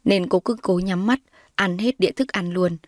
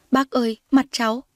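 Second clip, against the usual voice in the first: mild whimper; 5 semitones higher than usual. Acted. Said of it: "chạy ra mở cửa mếu máo".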